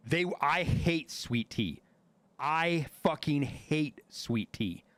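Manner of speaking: slow, drawn-out "hate"; emphatic loathing. Real, not acted. Telling chat about sweet tea, slow emphatic loathing. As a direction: stretch out "hate" for emphatic disgust.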